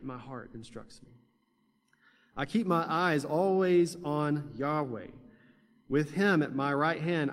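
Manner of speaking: measured, declarative psalm reading; scripture reading. Acted. Preacher reads a psalm to the congregation, measured scripture reading. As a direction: read the psalm out with deliberate emphasis.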